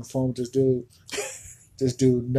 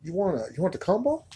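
upselling cashier; 3 semitones higher, 4 dB quieter than usual. Acted. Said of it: "Sir, do you".

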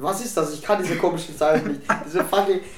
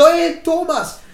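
loud, high shout to someone; calling out; 11 semitones higher, 9 dB louder, much slower than usual. Shown as a demonstration. Showing how one tells someone something, shouted call. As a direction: holler to get a friend's attention. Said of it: "Wenn ich jemand was sagen will".

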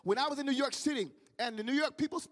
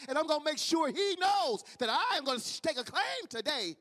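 defiant quote; 3 semitones higher than usual. Retold or imitated. Preacher retelling a hurt woman's vow to fight back, defiant. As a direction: voice her determination, pitched up.

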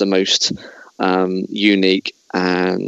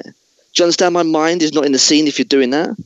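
raised, hammed-up lecture to the crew; Christian Bale tirade; 5 semitones higher than usual. Host as Bale scolds the cinematographer, hammed-up. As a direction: scold like a method actor. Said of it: "I'm gonna be Christian Bale".

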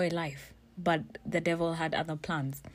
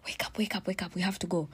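softer, whispered urgent wake-up; 4 dB quieter, faster than usual. Retold or imitated. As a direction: hiss it to wake someone gently. Boyfriend waking her at 5am.

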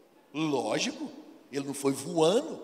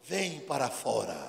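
mock command; slower than usual. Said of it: "ele lá".

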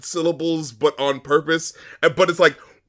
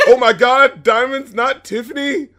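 mock lyric; 9 semitones higher, 5 dB louder than usual. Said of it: "Whoa, Vicky".

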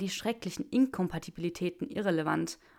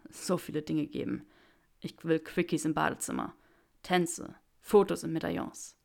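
Draco's wishes; 2 semitones lower than usual. Acted. Draco tells Granger everything he wants, eager.

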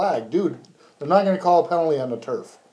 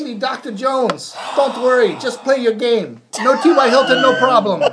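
mock reassurance; 7 semitones higher, 3 dB louder than usual. Mocking a confident announcer.

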